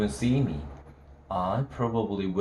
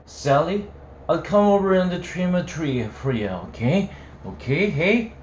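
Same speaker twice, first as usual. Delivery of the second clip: put-on drunk; 6 semitones higher than usual. A narrator's reading. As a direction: wheedle like a drunk. Drunk Holden pleading.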